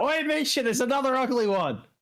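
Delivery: high-pitched, far-carrying shouted call. Voicing a character calling out to Misha in a fight: character yelling out. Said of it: "he's going to yell out".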